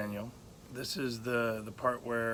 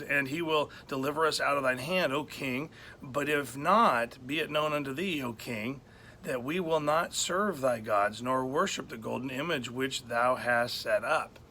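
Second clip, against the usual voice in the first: scripture reading. Acted. Preacher reads the boys' bold answer to the king, solemn and raised. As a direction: proclaim the old verse with weight.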